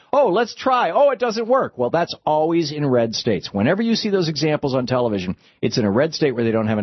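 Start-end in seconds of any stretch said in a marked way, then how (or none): 0.1-1.8 very high-pitched mock helplessness; exaggerated high mimicking voice; mocking TV pundits. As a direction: imitate a phony failed attempt. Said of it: "they constantly say".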